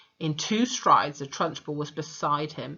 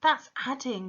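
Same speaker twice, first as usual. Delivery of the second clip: cried; 7 semitones higher than usual. A narrator's reading. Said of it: "Wilfred cried".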